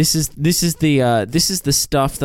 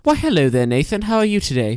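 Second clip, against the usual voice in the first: put-on voice; 3 semitones higher than usual. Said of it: "what is voice you're doing?".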